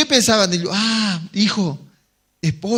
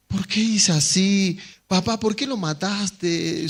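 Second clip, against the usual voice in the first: put-on child's voice; slower than usual. Child questions father.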